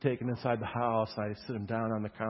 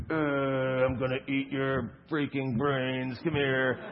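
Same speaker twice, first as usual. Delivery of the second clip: zombie; slower than usual. Acted. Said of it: "where I pretend like I'm a zombie".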